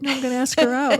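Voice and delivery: put-on a touch of childlike glee; little-kid excitement. Friend retelling a man's crush, little-kid excitement. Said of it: "he was like a little kid".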